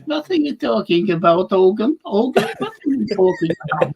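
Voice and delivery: put-on comic German sitcom accent; playful German-accented impression; mock German accent. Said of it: "you know, that German".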